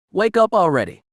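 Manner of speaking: urgent call, pitched well up; shouted. A narrator's reading. Kira impatient to rouse Avi, shouted. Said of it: "she shouted".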